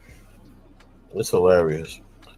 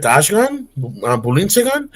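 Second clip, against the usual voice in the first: mock German nonsense, higher and questioning; fake German accent; 6 semitones higher than usual. Repeating fake German nonsense to a confused listener, lightly mocking. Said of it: "fake German accent".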